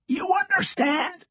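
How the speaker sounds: slow, strained raspy retort; defiant rasp. A narrator's reading. Cross echoes the agent to defy him, defiant rasp. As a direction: rasp it back mockingly. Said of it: "doing his best to stand up to him".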